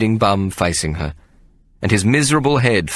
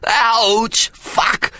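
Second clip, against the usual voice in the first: high yelp, then a breathy hissed curse; a sudden high cry of pain. A narrator's reading. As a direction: yelp as the glass cuts in. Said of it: "he yelled".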